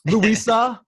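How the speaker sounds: trash-talk call out. Acted. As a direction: hype it up like a boxing promo, taunting. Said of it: "do the official call out now".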